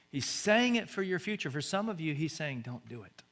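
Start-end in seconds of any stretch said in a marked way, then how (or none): 2.6-3.2 much softer, hushed warning; God's whisper. Pretend. God whispering a warning to the listener, hushed. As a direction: murmur it like a voice in the ear. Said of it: "He's whispering".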